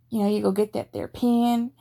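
a quick Southern accent sample, lightly done; rhotic Southern accent. Shown as a demonstration. Demoing the rhotic Southern accent for viewers, lightly done. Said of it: "let's go with a rhotic Southern accent".

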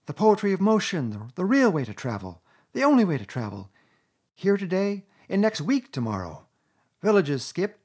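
high, loud, ecstatic gushing; rapturous Toad. A narrator's reading. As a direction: swoon over the speed like a lovesick fool.

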